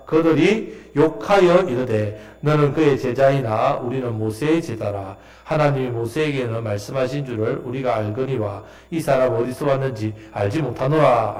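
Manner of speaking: low, measured Bible reading; scripture reading. Acted. Preacher reading the leaders' reply to the congregation, solemn reading. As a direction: read the verse out firmly and deliberately.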